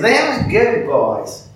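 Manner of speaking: slow, drawn-out defense; slow insistent. Retold or imitated. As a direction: draw it out like a firm lady. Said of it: "she says".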